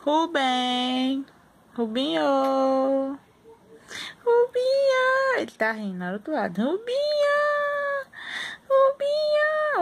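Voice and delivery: high drawn-out sing-song name; sing-song calling. Real, not acted. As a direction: call him sweetly, stretching it.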